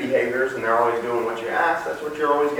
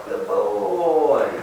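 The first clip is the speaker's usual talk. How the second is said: high praise; 4 semitones higher than usual. Real, not acted. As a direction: pitch the praise way up for the dog. Praise right after calling.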